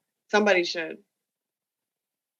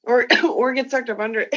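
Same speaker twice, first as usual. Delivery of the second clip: laughing while repeating it; amused laughing repeat; 3 semitones higher, 5 dB louder than usual. Real, not acted. Repeats friend's line laughing.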